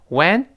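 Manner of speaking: "when" for went, cut off with tongue held; unreleased T. Shown as a demonstration. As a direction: stop "when" on a silent t. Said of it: "舌尖顶住停一下".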